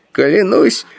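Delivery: slow, very high-pitched astonishment; amazed exclamation. A narrator's reading. Grand Master hears of offering gold to ancestors, amazed exclamation. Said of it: "изумлённо воскликнул верховный магистр".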